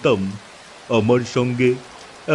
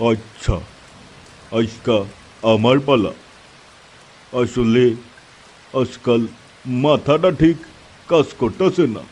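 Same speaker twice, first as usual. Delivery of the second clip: put-on an old man settling in; lightly voiced old uncle. (হালকা বুড়ো চাচার গলা)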